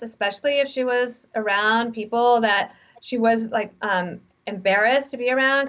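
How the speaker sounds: every phrase tipped up like a question; a light imitation of uptalk; uptalk demo. Shown as a demonstration. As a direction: mimic her rising, unsure lilt. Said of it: "she would talk like this".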